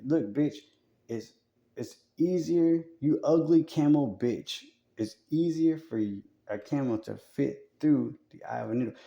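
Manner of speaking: hammed-up street scolding; mock gangster telling off. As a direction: lay into him like a gangster. Jesus voiced telling off heckler.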